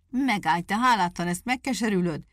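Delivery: the beaten wolf vows revenge on the ungrateful dog; wolf's threatening shout. Acted. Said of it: "kiáltotta a farkas". (enyhén hangosabb fenyegető kiáltás)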